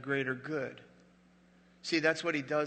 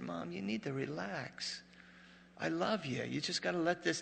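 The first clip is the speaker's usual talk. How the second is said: soothing; 3 semitones higher, 5 dB quieter than usual. Retold or imitated. Son soothing dying mother at bedside.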